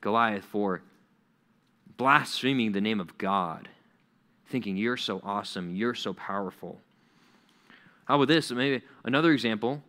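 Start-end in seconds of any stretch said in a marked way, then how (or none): 0.0-6.8 a lightly voiced God settling the score; stern God. Preacher voicing God warning Goliath, low and stern. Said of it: "God says".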